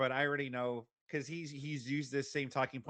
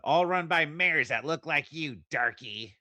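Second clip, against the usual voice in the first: louder, derisive mimicry; mocking paraphrase; 5 dB louder than usual. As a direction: throw the words back mockingly. Mocking paraphrase of debater's words.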